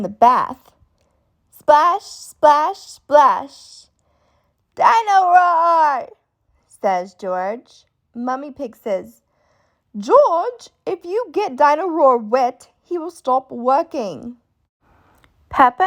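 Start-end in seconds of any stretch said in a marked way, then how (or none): 1.5-3.9 playful splash. A narrator's reading. George splashing in bath. 4.7-6.1 put-on high, slow toddler voice; toddler George. A narrator's reading. 10.0-14.4 lightly voiced Peppa warning. A narrator's reading.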